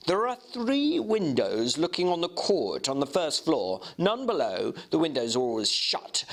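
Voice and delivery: a hint of an earnest young gentleman describing the door; young Enfield telling his tale, lightly voiced. Enfield's dialogue in read story.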